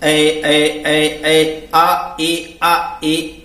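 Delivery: ऐ repeated, then आ and ए said apart; vowel blending drill. Shown as a demonstration. Teacher drilling the ऐ sound for students. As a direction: run आ into ए until it becomes ऐ. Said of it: "जैसे".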